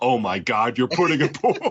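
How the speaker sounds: mock stunned, astonished, incredulous exclamation. Quoting a favorite movie line he and his buddies repeat: imitating astonished disbelief. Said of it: "like Clark's doing the most insane thing ever".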